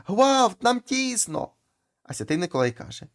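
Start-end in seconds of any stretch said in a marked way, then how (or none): 0.1-1.5 high, loud retold cry. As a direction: cry out like souls crammed together. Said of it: "а там знов кричать". (високий гучний крик)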